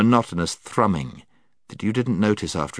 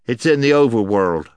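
out of breath; 4 semitones higher, 7 dB louder than usual. Acted. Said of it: "struggling a little to get his breath".

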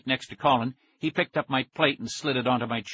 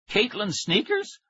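higher, drawn-out shocked question; startled cry; 9 semitones higher, slower than usual. A narrator's reading. Kid hears about his friend's sister's glued sneakers, startled cry. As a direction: blurt it out in alarmed disbelief. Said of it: "I cried".

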